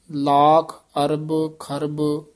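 slow ਲੱਖ ਅਰਬ ਖਰਬ, then a rest before ਦੀਨੋ ਦਾਨ; pause after ਖਰਬ. Shown as a demonstration. Teacher showing the pupil where to rest, slowly. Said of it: "ਇੱਥੇ ਵਿਸਰਾਮ ਲਾ ਦੇਣਾ".

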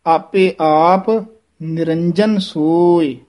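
slow, pause after ਆਪੇ ਆਪ, then ਨਿਰੰਜਨ ਸੋਏ. Shown as a demonstration. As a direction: rest on ਆਪੇ ਆਪ, tight j in ਨਿਰੰਜਨ. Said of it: "ਇੱਥੇ ਵਿਸਰਾਮ ਹੈ".

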